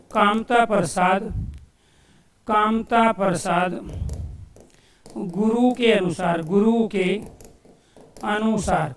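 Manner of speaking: slow, spaced-out phrases with long pauses; slow dictation. Real, not acted. Teacher writing out the grammarian's name, slow dictation. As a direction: dictate it in small repeated pieces.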